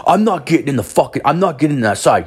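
high-pitched indignant griping; mock bitching. Stranger refusing to get in beside puke, mock griping. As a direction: imitate an outraged complainer. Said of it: "I can hear him bitching".

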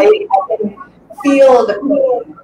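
teary, voice breaking high; holding back tears, slow; after crying. Real, not acted. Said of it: "I'm getting teary-eyed".

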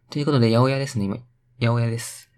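punny announcement. Pretend. Playful wordplay announcement.

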